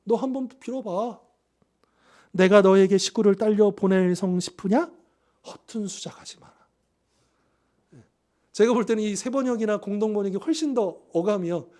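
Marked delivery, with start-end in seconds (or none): 0.0-6.5 contemptuous sarcasm, last words breathed out unvoiced; sarcastic. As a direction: sneer at him, then drop to a whisper. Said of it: "이거 빈정대는 투잖아요".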